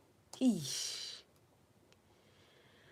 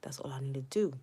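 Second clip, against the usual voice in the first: whisper; 4 semitones lower, 5 dB quieter, faster than usual. Real, not acted. Whispered aside.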